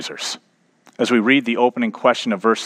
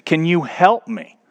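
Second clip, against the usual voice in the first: raised, stretched-out plea for help; higher, slowing storytelling call; mock yell; 6 semitones higher than usual. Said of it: "the man yells out".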